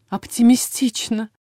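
slow, sceptical drawl; drawled, unimpressed. A narrator's reading. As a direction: drawl it out with no enthusiasm. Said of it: "совсем не оптимистично протянула Эля".

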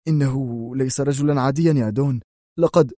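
grudging protest; defensive grumble; irritated excuse; resentful mutter. Acted. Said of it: "غمغم بيمبوليني في حنق".

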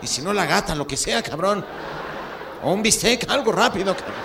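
hammed-up desperate grandpa demanding help; abuelo desesperado. (exigencia aguda y desesperada de abuelo)

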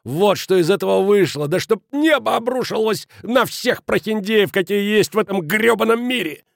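high, loud, ranting fury; roaring. A narrator's reading. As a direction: rage at the man who cheated them. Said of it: "взревел Кранер". (яростная тирада на крике)

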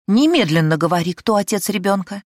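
loud, forceful order; commanding demand. Acted. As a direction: demand the name now. Mistress demands an answer.

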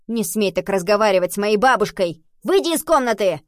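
put-on loud, high indignant boy; ringing boy's voice. A narrator's reading. Boy defending his grandmother, loud ringing shout. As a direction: shout at the soldier in outrage. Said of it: "звонкий мальчишеский голос".

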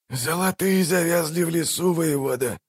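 high, hoarse and strained. A narrator's reading. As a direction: rasp it out, old and weary. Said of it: "проговорил он сиплым голосом". (сиплым голосом)

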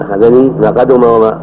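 أخذني said slowly with a clear -ni; pronounced with nun. Shown as a demonstration. Teacher correcting the reader, أخذني with a clear nun. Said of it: "مع النون".

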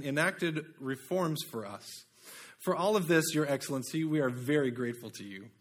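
a hint of a British accent; slightly British oration for the lawyer's address. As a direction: read it as a lightly British-accented courtroom speech. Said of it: "do this in a British accent".

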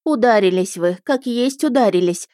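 mild lamenting cry; lamenting peasant woman. Acted. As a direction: fret over the lady's red face. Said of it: "запричитала женщина".

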